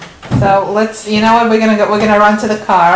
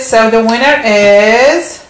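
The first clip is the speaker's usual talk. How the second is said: announcer voice; 4 dB louder, much slower than usual. Pretend. Announcing the winner.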